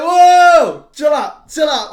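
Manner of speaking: high, loud frightened pleading; squealing panic; panicked pleading. Retold or imitated. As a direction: beg the thing to calm down, half laughing. Retelling freaking out at the game.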